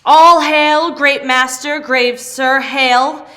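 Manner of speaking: loud ceremonial greeting; loud hail. Acted. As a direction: hail the master like a herald. Spirit greets master with fanfare.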